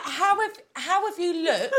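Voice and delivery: high, laughing disbelief; laughing through words. Retold or imitated. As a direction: ask it while cracking up. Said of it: "So I was like".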